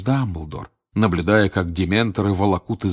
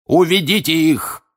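loud, higher spitting order; furious shout; 9 semitones higher, 5 dB louder than usual. A narrator's reading. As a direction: spit the order out in rage. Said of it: "крикнул он дементорам, брызжа слюной".

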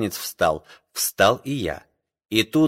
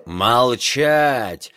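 sharp command. A narrator's reading. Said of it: "оборвал его капитан".

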